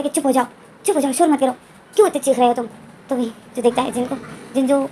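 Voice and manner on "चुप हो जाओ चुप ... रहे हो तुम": a touch of an annoyed scold; scolding angrily. Acted. Jin scolds Wing's crying baby, mildly angry. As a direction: snap at a crying baby to hush. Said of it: "डांट रहा था और उसको जैसे गुस्सा कर रहा था".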